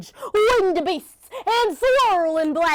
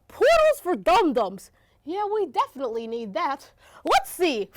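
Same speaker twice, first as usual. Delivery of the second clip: excited squeaky voice; 4 semitones higher, 4 dB louder than usual. Acted. Tiddlywink reads books excitedly.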